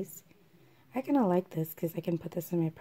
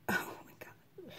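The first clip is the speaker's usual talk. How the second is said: breathy, high whispered gasp of surprise; oh my god, half whispered in surprise; surprised gasp; 11 semitones higher, 8 dB quieter than usual. Real, not acted. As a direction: caught off guard, whisper it up high. Reacting to the face cream.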